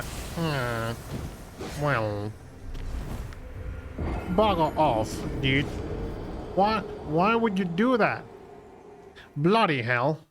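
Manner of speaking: slightly put-on British accent, leaky-nosed; British, leaky nose. Shown as a demonstration. Streamer tries a viewer's voice request, leaky-nosed British man. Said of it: "How does your voice change when you have a leaky nose".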